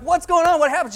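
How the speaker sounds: high, loud, eager burst of questions; retelling his own breathless curiosity; eager excited questions. Retold or imitated. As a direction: pounce on her for the news. Friend returns, he is eager.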